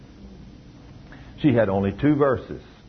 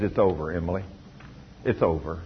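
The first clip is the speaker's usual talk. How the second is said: grim doctor; 7 semitones lower, 5 dB quieter, faster than usual. Retold or imitated. Doctor voiced giving grim news.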